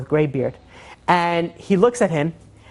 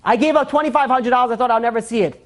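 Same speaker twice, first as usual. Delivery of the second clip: higher-pitched, mildly overwrought retelling; overwhelmed; 5 semitones higher than usual. Retold or imitated. Crying collector explaining his test to the donor, overwhelmed. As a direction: plead it high, as if moved to tears. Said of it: "The guy starts bawling, crying".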